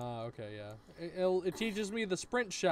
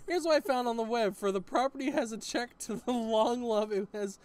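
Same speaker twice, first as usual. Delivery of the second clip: a light, higher mock assistant voice; imitating Siri; 6 semitones higher than usual. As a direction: parrot the phone assistant's reply. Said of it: "It's like".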